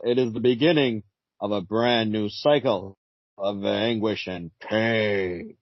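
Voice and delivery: slow, solemn narrator of doom; Phantom Stranger voice. Acted. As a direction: intone it like a brooding spirit. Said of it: "you have a Phantom Stranger voice".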